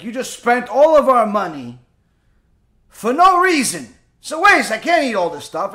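mock-complain about the waste; mild exasperated complaint. Husband scolds wife over wasted food.

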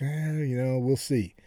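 mock-reluctant, offhand brush-off; noncommittal hedging. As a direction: imitate putting someone off. Retelling own noncommittal answer.

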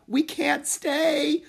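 loud, high, very slow wail; desperate cry. A narrator's reading. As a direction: wail it out in panic. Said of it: "cried Annie".

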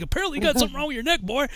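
fast, high-pitched mock sergeant; drill sergeant. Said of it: "the drill sergeant's like".

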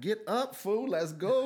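high-pitched, rising to a loud push; rally a frozen friend to move; retold urgent yell. To frozen Tony during the shooting, urgent yell.

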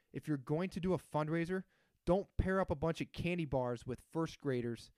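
heated rant; building irritation; getting worked up. Real, not acted. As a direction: vent like it really bugs you. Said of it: "getting worked up".

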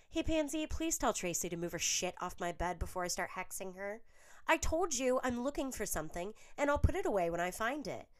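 high, loud, exasperated complaint; shrill quarrel. A narrator's reading. Millicent complains to Pansy about Tracy, loud and high. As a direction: snap at her roommate to get her way.

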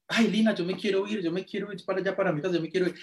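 quejido agudo, suplicando irse; súplica quejumbrosa. Retold or imitated. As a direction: suplica como quien se resiste a que lo jalen. Él suplica irse mientras lo jalan. (imitando su propia queja, en tono agudo)

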